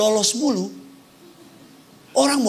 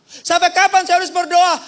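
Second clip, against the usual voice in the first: questioning congregant; 7 semitones higher, 4 dB louder than usual. Acted. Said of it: "Saya suka bilang dalam khotbah saya".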